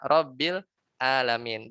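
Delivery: slow "Rabbil Alamin" with "Alamin" started by a plain glottal stop; wrong hamzah. Shown as a demonstration. Ustaz mimicking a student's mistaken reading, slow recitation. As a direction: say "Rabbil Alamin" slowly, hamzah instead of ain. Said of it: "Tapi dia baca".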